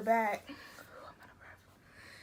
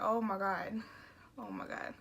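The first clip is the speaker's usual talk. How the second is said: retold panic; 6 dB quieter than usual. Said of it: "kinda panicking".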